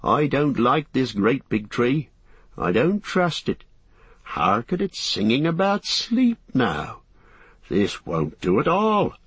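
slow, deliberate suspicion; a hint of a wary servant, drawn out; lightly voiced Sam, wary. Sam grumbling about the singing tree, slow and wary.

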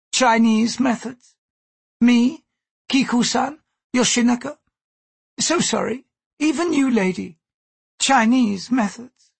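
high-pitched, deliberate warning; ominous Gyoko. Acted. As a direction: spell out the threat item by item, high-voiced.

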